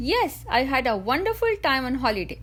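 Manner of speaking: WONDERFUL TIME lifted above the rest of the sentence; stress on WONDERFUL TIME. Shown as a demonstration. English coach demonstrating sentence stress on WONDERFUL TIME. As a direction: lean on "wonderful time" to show it matters. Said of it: "I stressed on the words".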